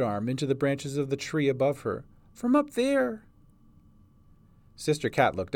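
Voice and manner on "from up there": put-on very high, small child's voice; hurt little girl. A narrator's reading. Hurt girl shows where she fell from, small child's voice.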